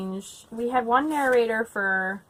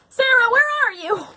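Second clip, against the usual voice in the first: high, loud call across the house; shouting a name down the hall; 12 semitones higher, 7 dB louder than usual. Real, not acted. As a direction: call out to someone in another room. Calling out to someone off-room.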